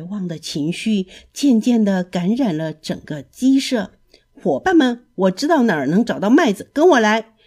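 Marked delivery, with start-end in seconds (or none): 4.3-7.3 loud, quick rallying call to friends; rally the chicks, rising to a shout. Acted. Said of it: "小胖墩喊道". (小胖墩召唤伙伴，大声喊)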